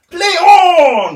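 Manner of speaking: loud, high yell of play on; referee shout. Retold or imitated. Referee shouting at the screaming injured player, loud shout. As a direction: call it out like a dismissive referee. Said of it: "And the referee was".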